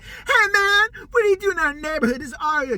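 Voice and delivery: loud, hammed-up tough-guy yell; mock gang threat. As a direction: shout it like a fake gangster. Repeat of fake gang threat.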